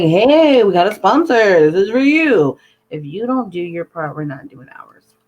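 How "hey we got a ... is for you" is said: mock announcement. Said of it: "you're like".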